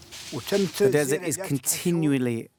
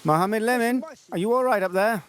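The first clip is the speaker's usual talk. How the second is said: calling up high; 8 semitones higher, 4 dB louder, faster than usual. Real, not acted. Calling up to a climber.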